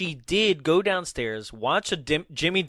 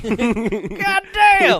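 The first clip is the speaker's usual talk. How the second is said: high, loud vendor curse; stadium vendor hawking; 7 semitones higher, 8 dB louder than usual. Pretend. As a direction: bellow it as the vendor. Vendor bit again.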